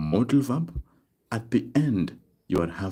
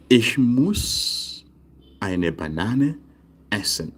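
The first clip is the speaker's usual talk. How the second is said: Ich muss raised and held, then falling away; phrase-by-phrase model; 2 semitones higher, slower than usual. Shown as a demonstration. Teacher giving a second German example, measured modelling. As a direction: pause after each chunk of the sentence.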